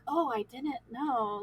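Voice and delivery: slow, pitying imitation; imitated sorry-for-you tone; mock sympathy. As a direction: draw it out as overdone condolence. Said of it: "that sympathy".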